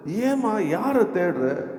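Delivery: high, very drawn-out question; lilting, slow acted appeal; tender questioning. Voices the Lord's question to woman.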